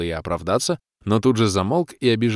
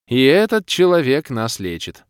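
holding back laughter; 5 semitones higher, 6 dB louder than usual. Acted. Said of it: "вздохнула Кира, с трудом сдерживая смех".

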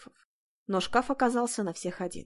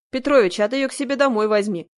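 mocking call across the room; 4 semitones higher, 7 dB louder than usual. Major jokes from duty window.

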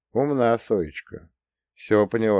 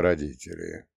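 relieved; 5 semitones lower, 5 dB quieter than usual. Acted. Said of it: "Облегчённо вздохнул я".

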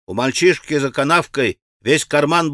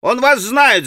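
put-on higher, excited boyish cries; children's shouting; 6 semitones higher than usual. A narrator's reading. Children warning Alyosha of another stone, excited shouting. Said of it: "закричали дети".

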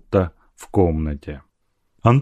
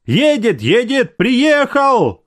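high, rising panicked cry; frightened shout; 13 semitones higher, slower than usual. A narrator's reading. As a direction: servants bursting in, crying high that he has come. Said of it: "кричали они, бледные, испуганные".

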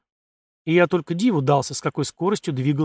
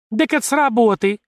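high, louder squeal of realisation; 8 semitones higher, 4 dB louder than usual. A narrator's reading. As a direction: squeal it out in shock. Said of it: "взвизгнула тётка".

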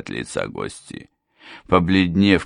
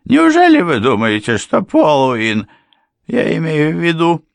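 higher, louder, flustered stumbling question; flustered slip; 11 semitones higher, 7 dB louder than usual. A narrator's reading. Blushing housekeeper slipping up, high and flustered. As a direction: trip over your own words. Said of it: "лицо Марии зарделось".

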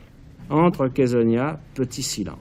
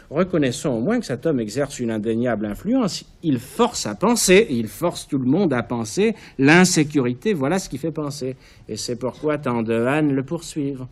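louder, building conviction; heated argument; 3 semitones higher, 5 dB louder than usual. Acted. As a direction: drive the point home, louder and louder. Kéréa arguing with rising heat.

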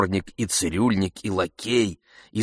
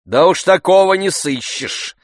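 mocking interruption; 10 semitones higher, 6 dB louder than usual. A narrator's reading. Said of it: "перебил кучер".

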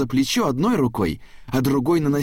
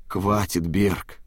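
weary; much slower than usual. A narrator's reading. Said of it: "устало попросил папа Чейз".

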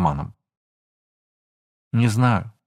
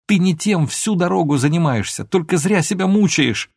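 loud and high, heated; raised voice; 7 semitones higher, 4 dB louder than usual. A narrator's reading. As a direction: keep pressing him hard. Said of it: "закричала она".

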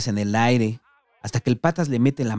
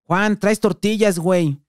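much higher, slow, loud call; 8 semitones higher, 4 dB louder, slower than usual. Acted. The patas yelling after Juan leaving, drawn-out loud call. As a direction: stretch it out across the street. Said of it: "el patas le grita".

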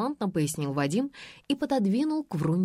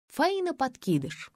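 usual speaking voice

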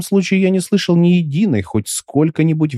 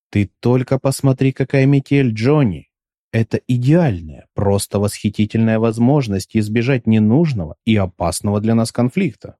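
lightly voiced affected dandy; a touch of prissy, mannered speech. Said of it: "нелепый, манерный голос".

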